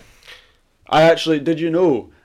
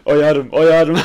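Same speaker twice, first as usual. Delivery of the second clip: mock call; 4 semitones higher, 9 dB louder than usual.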